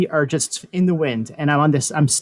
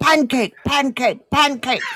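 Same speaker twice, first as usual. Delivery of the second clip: very high, repeated screaming; 10 semitones higher than usual. Describing a jump from a plane, the speaker repeats what he started yelling: retelling a scream. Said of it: "he starts screaming".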